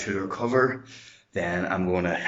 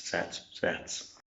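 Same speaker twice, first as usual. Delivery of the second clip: out of breath; 2 semitones lower, 9 dB quieter than usual. Real, not acted. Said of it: "a wee bit out of breath".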